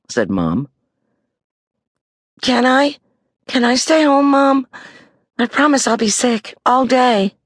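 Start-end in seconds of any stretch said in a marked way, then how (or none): 2.4-7.4 pleading. A narrator's reading. Judy begging Mom.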